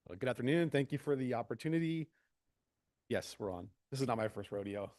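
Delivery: distant, off-mic sound; far from mic. Real, not acted. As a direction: speak from well back from the microphone. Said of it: "You sound so far away".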